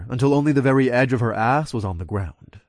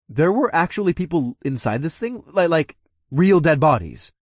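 shocked; 5 semitones higher, 3 dB louder than usual. Acted. Shocked question.

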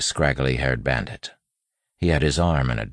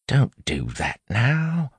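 put-on slow, raised-pitch street accent; soft street accent; 11 semitones higher, slower than usual. A narrator's reading. Wayne cautioning the bandit, soft street accent. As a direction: confide slowly in the bandits' accent. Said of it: "Wayne said softly".

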